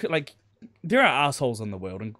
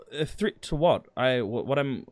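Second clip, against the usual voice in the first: put-on broken German accent. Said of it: "in the broken German accent again".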